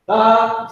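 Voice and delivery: spoken as a Hebrew term; Hebrew word. Shown as a demonstration. Teacher drilling the class on the Hebrew word "Tha". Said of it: "This is what you would say".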